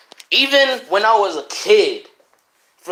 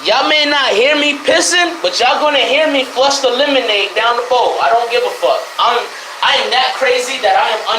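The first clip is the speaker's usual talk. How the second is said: loud, brash boasting; loud and defiant; 5 semitones higher, 4 dB louder than usual. Real, not acted. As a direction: belt it out shamelessly.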